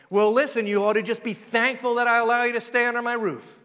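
harsh, loud scolding stepmother; cruel stepmother. Retold or imitated. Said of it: "maybe a cruel stepmother might?".

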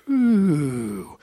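drawn-out low "ooh"; low, long imitated crowd noise; army's "ooh". Army reacting to God's cut, low "ooh". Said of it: "Army goes".

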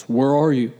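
low, booming voice of God. Acted. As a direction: call out deep like God from above. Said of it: "That's my God voice".

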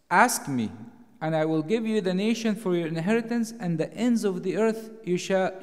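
loud, ringing pulpit declamation; preaching at full force. Acted. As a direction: proclaim it to the whole congregation. Preacher's raised scripture declamation.

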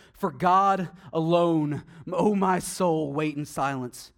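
slow, solemn psalm reading; measured reverent recitation; scripture reading. Acted. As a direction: read it out slowly like a prayer. Reads psalm aloud.

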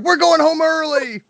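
high, slow, gleeful; mock cheer. Staff gleeful about going home early. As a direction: savour it like a surprise holiday. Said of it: "Everyone's like".

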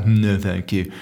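low, sour little brush-off; miserable refusal. Retold or imitated. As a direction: turn it down glumly, as an imitation. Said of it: "Just being miserable".

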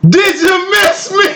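high, slow taunting question; creepy slow mocking reveal; menacing taunt. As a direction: draw it out like a villain. Visitor's sinister punchline reveal.

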